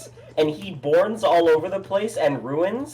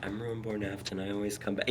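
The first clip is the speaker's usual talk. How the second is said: imitating a very soft drone; faint background villain voice; quiet monotone; 7 semitones lower, 13 dB quieter than usual. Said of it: "your voice is so quiet".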